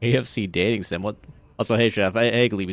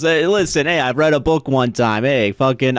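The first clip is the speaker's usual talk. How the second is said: hammed-up Italian accent, louder and pushy; loud, playful Italian-accented imitation; mock Italian accent; 2 semitones higher, 4 dB louder than usual. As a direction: put on a rough attempt at Italian accent. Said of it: "I'm, I'm going Italian".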